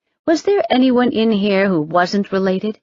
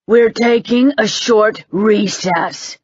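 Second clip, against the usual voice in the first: roared announcement; 4 semitones higher, 3 dB louder, slower than usual. Acted. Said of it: "Curran roared".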